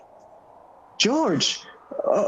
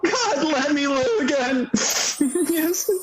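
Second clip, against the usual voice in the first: desperate joyous plea. Acted. George prays to live again.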